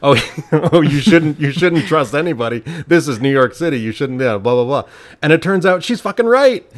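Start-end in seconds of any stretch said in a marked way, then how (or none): 0.0-4.8 thick New York accent, hammed up. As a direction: talk like a brash New Yorker. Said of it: "with a thick New York accent".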